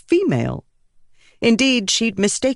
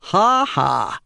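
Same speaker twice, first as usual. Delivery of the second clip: dry; 2 semitones higher than usual. Acted. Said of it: "Scar said dryly".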